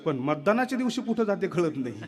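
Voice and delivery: a politician puzzling over his lost votes, with a laugh; booming rally-stage complaint, hammed up; Raj Thackeray impression. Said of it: "Raj Thackeray म्हणतो".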